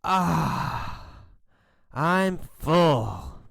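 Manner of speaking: long satisfied "Ah", then drawn-out relief; smiling contentment. Acted. Bug after eating all the hamburgers, smiling and contented. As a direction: sigh it out with a full belly and a smile. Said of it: "He smiles and says".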